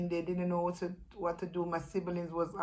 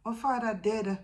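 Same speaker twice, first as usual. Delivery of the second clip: a higher voice, imitating the sister's denial; sister insisting; 6 semitones higher, 3 dB louder than usual. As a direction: mimic her disbelief in patois. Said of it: "she said".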